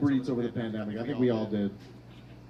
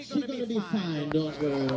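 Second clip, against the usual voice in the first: mock reassurance. Nurses reassuring at the door.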